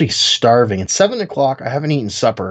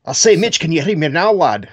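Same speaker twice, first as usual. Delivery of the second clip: high hammy upper-class Brit; posh British voice; 7 semitones higher than usual. Pretend. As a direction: put on a jolly British gent. S1 mock-British "I'll say, lad" bit.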